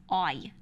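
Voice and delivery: "I" said long and drawn, Northeastern; accent quirk demo. Shown as a demonstration. Speaker showing how she says I to her mother, drawn-out I. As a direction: stretch the word I, slow, like on the phone with mother. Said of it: "like that".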